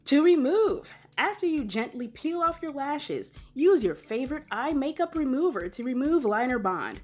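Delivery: upbeat, projected host delivery; game show voice. Acted. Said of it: "That is my, uh, game show voice".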